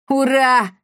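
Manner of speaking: high happy cheer; joyful yell. Acted. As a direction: cheer out in delight. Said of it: "радостно завопил Пима".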